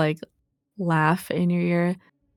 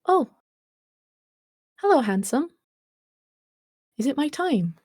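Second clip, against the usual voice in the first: put-on high, sweet old lady voice; a frail granny waking, high and gentle; 9 semitones higher than usual. Dead granny greets the stranger, in a high sweet old voice.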